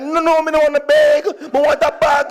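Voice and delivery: high, loud American twang. Retold or imitated. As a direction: put on a foreign twang. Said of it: "I began to twang".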